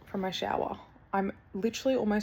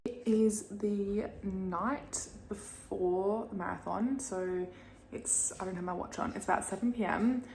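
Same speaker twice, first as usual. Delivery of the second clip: hushed voice; 6 dB quieter than usual. Real, not acted. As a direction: keep it hushed and soft. Night before, quietly talking.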